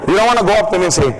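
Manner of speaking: ordinary talk, nothing marked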